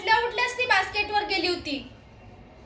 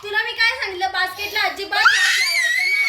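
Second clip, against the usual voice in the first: scolding; 3 semitones higher, 4 dB louder than usual. Real, not acted. Scolding the dog about the basket.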